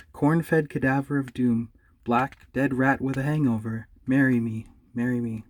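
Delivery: slow, hammed-up romantic recital; mock love poem. Bear reciting a love poem, slow and hammed-up. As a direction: woo with a gross poem.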